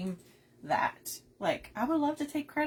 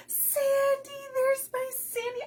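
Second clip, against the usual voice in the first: high, louder delighted call; excited greeting; 4 dB louder than usual. Real, not acted. Host greeting her friend Sandy joining the stream, delighted.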